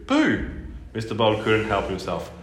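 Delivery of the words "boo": high, loud call. Acted. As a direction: shout the name out. Hyena calls again.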